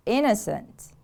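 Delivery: "Innocent" with the stress on IN; stress on first syllable. Shown as a demonstration. Teacher models the word for repeating, stress on IN in "Innocent". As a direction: stress the opening of "Innocent" and fall away. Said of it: "The stress is on the first syllable".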